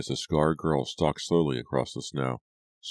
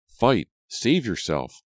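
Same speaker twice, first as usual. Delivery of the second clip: high, louder urgent command; inner scream; 7 semitones higher, 3 dB louder, slower than usual. A narrator's reading. Brady's mind rallying him, screaming. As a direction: urge it desperately, short of a full scream. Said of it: "his mind screamed".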